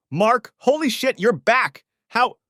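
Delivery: high, loud, slow shocked greeting; startled friend. Acted. Friend on speakerphone startled the husband is home, surprised. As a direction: sound caught off guard.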